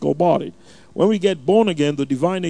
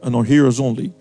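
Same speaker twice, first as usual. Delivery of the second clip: earnest, steady prayer voice; public prayer; 4 dB louder than usual. Real, not acted. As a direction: lead the congregation in fervent prayer, slightly firmer than plain teaching. Leads an opening prayer.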